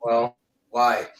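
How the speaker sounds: hollow echoing room sound; cave echo. Real, not acted. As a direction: voice bouncing off cave walls. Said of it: "Sounds like you're in a cave".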